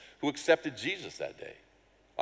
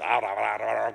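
mock babbling; 5 dB louder than usual. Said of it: "going louder and louder".

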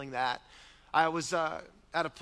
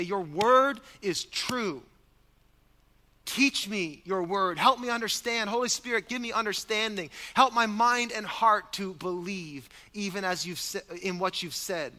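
humble prayer; 5 semitones higher, 5 dB louder than usual. Retold or imitated. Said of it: "I humbly yield myself and say".

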